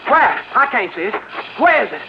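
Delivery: a gunman terrified of a snake he can't see; panicked. Acted. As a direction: killer losing his nerve over a rattler, shrieking. Gunman panics over a rattlesnake.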